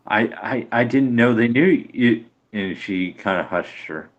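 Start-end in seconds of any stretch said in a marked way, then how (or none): 0.1-2.3 slightly raised, halting stammer; mildly rattled, acted apology; flustered stammer. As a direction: stumble over the first word, a little flustered. Flustered figure stammers in game.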